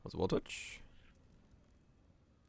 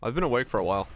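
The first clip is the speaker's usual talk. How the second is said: raspy voice; 3 semitones higher, 3 dB louder than usual. Real, not acted. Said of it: "I have, like, a really raspy voice today".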